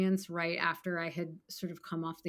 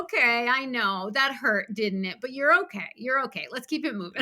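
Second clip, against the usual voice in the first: higher, gentle consoling; soothing self-talk; 3 semitones higher, 3 dB louder than usual. Retold or imitated. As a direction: comfort a hurt child, then move on. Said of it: "I wanna just wanna be like".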